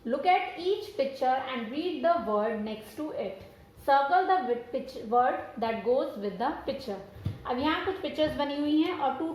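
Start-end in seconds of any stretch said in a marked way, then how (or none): 0.0-3.4 slow reading aloud. Shown as a demonstration. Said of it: "Let's read". 3.9-7.0 slow reading aloud. Shown as a demonstration. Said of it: "Let's read".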